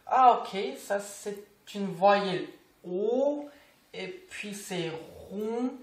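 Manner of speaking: lightly acted student working out the letters; learner sounding out. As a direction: sound it out slowly like a hesitant beginner, drawn-out vowels. Imite un élève qui se trompe. (élève qui déchiffre, joué légèrement)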